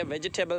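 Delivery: "वेजिटेबल" spelled out with a full "ji" syllable; wrong pronunciation. Shown as a demonstration. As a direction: say "वेजिटेबल" in four parts, ve-ji-te-bal. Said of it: "ये wrong pronunciation है". ("वेजिटेबल" का गलत उच्चारण, बीच में पूरा "जि")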